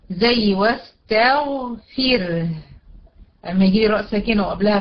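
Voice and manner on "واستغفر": واستغفر slow, ending in a thin R; measured recitation, thin R closing واستغفر; light still ra. Shown as a demonstration. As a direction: draw out واستغفر, final R light. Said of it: "مكسور ترقق".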